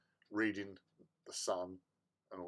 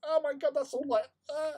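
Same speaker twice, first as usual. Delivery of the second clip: higher, thrilled gushing, forgetting the embarrassment; excited; 12 semitones higher than usual. Retold or imitated. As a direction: gush over the gadget like a kid. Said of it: "I've completely forgotten about it".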